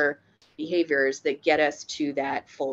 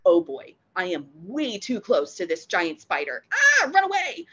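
playful fake panic rising to a squeal; mock scared dog; 3 dB louder than usual. Dog realising the spider is close, mock panic. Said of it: "they go".

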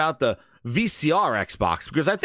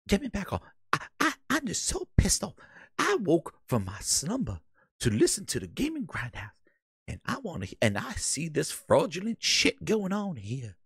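mock Mark Cerny; 6 dB quieter than usual. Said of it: "So, okay, Cerny".

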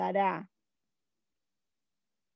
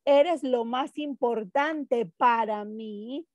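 "mí" lento y marcado; ejemplo enfatizado; 4 dB louder, slower than usual. Shown as a demonstration. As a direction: dilo despacio subrayando "mí". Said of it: "Si yo digo". (frase de ejemplo lenta y clara)

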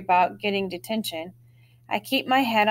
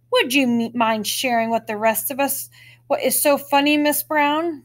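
louder mock-polite teacher; sarcastic; 5 semitones higher, 4 dB louder than usual. Teacher scolding giggling Amber, sarcastic and louder. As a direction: sneer it like a fed-up teacher. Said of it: "in a sarcastic voice".

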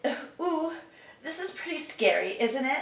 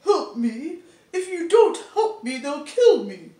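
louder, higher frightened begging; panicked plea; 5 semitones higher, 9 dB louder than usual. Acted. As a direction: beg with rising panic. Voice actor trying line takes.

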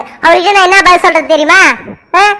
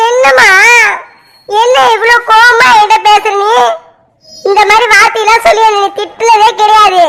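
hurt surprise; 3 semitones higher than usual. Acted. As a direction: ask why she is so angry, stung. Daughter hurt by mother's anger.

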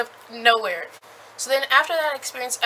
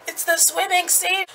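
excited squeal; 7 semitones higher than usual. Real, not acted. Reader squeals to viewers that the swimming scene arrived. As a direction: announce it like you've waited all book.

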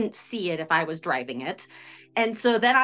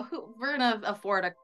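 a light scoff of disbelief; mildly sarcastic. Retold or imitated. Woman recalls doubting they could pay cash, mildly sarcastic. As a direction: play it doubtful, with a sarcastic "sure". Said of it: "You know, kind of sarcastically".

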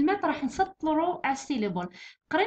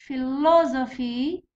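Philosophy slowly, 'lo' punched and stretched; stress on LO; much slower than usual. Shown as a demonstration. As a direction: hit the second syllable of Philosophy. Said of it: "هنا الثالث كي تحسب الأخير هو لو".

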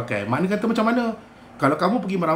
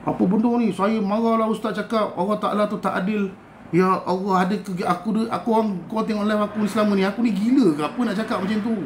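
higher-pitched exasperated reaction; raised pitch, fed-up disbelief; 4 semitones higher than usual. Retold or imitated. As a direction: react in mild, incredulous exasperation. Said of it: "Aku jadi macam".

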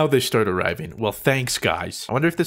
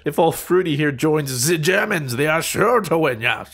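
lightly put-on German accent; a hint of mock German. Gamer boasting of joining Germans, German accent. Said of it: "That's fake German".

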